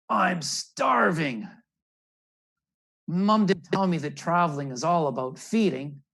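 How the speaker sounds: put-on starving young bird. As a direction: drag out how starving he is. Hungry Rufus after week flying.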